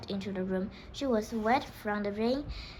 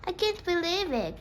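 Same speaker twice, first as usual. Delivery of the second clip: excited cry; 8 semitones higher than usual. A narrator's reading. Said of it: "cried the prince".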